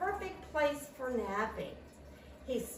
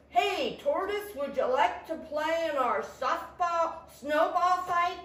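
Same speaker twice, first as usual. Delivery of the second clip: high-pitched, lively call; eager squirrel; 5 semitones higher, 5 dB louder than usual. A narrator's reading. Squirrel inviting Tortoise to a snowball fight, eager.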